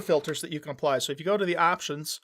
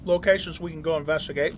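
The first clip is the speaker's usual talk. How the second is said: talking while chewing ice; crunching ice. Real, not acted. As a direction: crunch ice between words. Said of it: "Sorry, I'm crunching ice".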